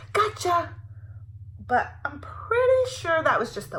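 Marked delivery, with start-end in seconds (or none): 0.1-0.7 dinosaur yell. A narrator's reading. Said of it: "a dinosaur yelling".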